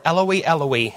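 Eloi said as "EL-oh-ee"; corrected pronunciation. Shown as a demonstration. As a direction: say Eloi in three syllables, starting with a short "el". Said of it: "I've always pronounced this wrong".

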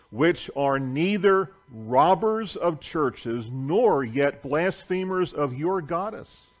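scripture reading. Acted. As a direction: proclaim the verses from the pulpit. Reads scripture aloud to congregation.

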